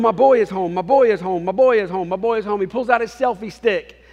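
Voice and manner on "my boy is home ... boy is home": much louder, higher, gleeful chant; ecstatic dad. Retold or imitated. Dad posting about his son, bellowing with joy. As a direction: shout it out like a proud dad showing off. Father posting online, overjoyed.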